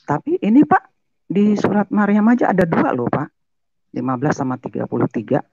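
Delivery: high, pressing objection; retold high-pitched challenge; insistent challenge. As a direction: push the point home.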